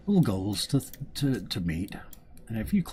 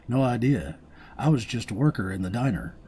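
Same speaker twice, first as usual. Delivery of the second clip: higher, louder diner worker voice; 5 semitones higher, 6 dB louder than usual. Acted. Voicing the diner worker NPC.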